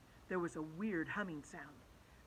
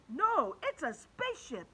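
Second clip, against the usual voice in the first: yell; 6 semitones higher, 4 dB louder than usual. Acted. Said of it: "yelled Ryan".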